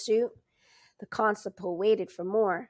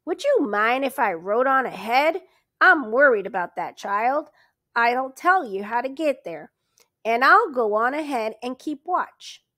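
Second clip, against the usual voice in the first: tight; 3 semitones higher, 6 dB louder than usual. Acted. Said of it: "he said tightly".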